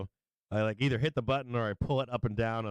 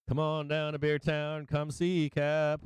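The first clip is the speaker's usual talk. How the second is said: higher, slow, stretched mock announcer call; game-show hype call; 6 semitones higher, slower than usual. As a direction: ham up the TV host inviting everyone in.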